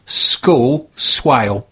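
langsam diktiert, jedes Wort klar; slow dictation. Shown as a demonstration. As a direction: spell it out slowly for listeners. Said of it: "all one word".

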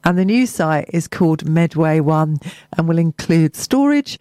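measured local radio news read; news bulletin delivery; press release read. Acted. Resumes reading press release.

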